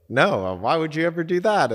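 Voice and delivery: high, indignant mock protest; incredulous retold objection, pitched well up; indignant retort. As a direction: imitate a partner picking a fight, voice jumping up. Retold partner picking a fight.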